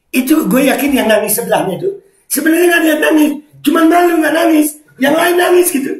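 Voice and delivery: high, loud, squeaky amusement; loud giggly storytelling; amused, near laughter. Real, not acted. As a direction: rush it out high, on the edge of cracking up. Talking while cracking up.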